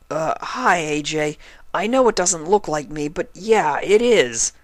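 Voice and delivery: lightly voiced sheepish young dragon; hesitant, a bit embarrassed hello; awkward Spike. A narrator's reading. Spike greeting Applejack, lightly sheepish.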